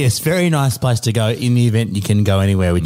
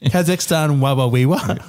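Borat chant through laughter; laughing Borat voice. Retold or imitated.

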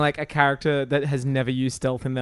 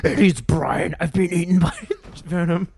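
Brian from Family Guy voice; 3 semitones higher than usual. Retold or imitated. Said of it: "Seth MacFarlane was the voice of Venom".

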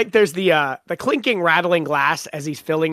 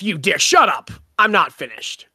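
a raised, firm voice cutting her off; retold angry outburst. Harry cutting Maeve off mid-threat, raised and firm.

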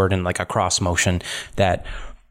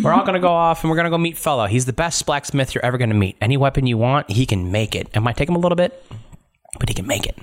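higher voice, rushing at the start; eager guide character; 5 semitones higher, faster than usual. Acted. Theo tells the party about the best blacksmith, eager higher voice. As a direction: talk up the blacksmith in a lifted voice.

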